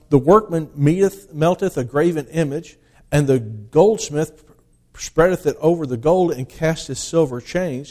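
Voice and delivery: declaiming the King James text, loud at the start; solemn pulpit reading of Isaiah; scripture reading. Acted. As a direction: read it like a preacher proclaiming the word. Reads Isaiah aloud from the pulpit.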